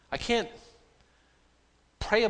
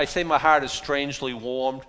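strangely given a little weight; stress on strangely; 2 semitones lower than usual. Shown as a demonstration. Preacher telling his congregation, stress on strangely. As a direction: lean on the word strangely. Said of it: "with the emphasis on strangely".

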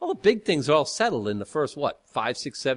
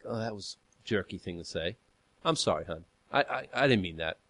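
low, soft, sheepish admission; re-enacted contrite apology; 6 semitones lower, 6 dB quieter than usual. Husband owning a jerky remark to his wife, low apology. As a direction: back down quietly, as if realising it.

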